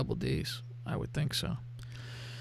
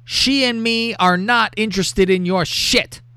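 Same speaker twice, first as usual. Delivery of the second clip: raised pitch, mildly indignant; mock stern warning; 5 semitones higher than usual. Reads boyfriend's angry warning.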